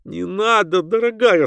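high-pitched frightened plea; high, urgent entreaty; pleading. A narrator's reading. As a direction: beg her to stop. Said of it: "стала умолять её".

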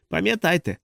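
вище, стримане шипіння крізь зуби; процідити крізь зуби; прошипів крізь зуби. A narrator's reading. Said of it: "прошипів він крізь зуби". (шипіння крізь зуби)

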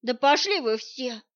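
fed-up snarl at everyone; growled. Acted. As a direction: snap it off in a temper. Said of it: "рыкнула я".

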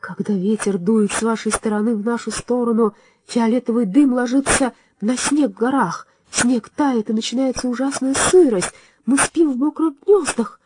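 raspy, pleading bird voice; hoarse plaintive vulture. A narrator's reading. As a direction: croak it out sadly like an old vulture. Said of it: "жалобный хриплый голос грифа".

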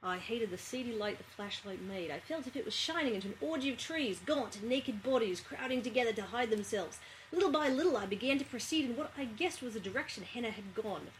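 a subtle Australian accent, reading a novel; light Australian accent. Shown as a demonstration. Reading a novel aloud on request in a subtle Australian accent. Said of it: "I can do an Australian".

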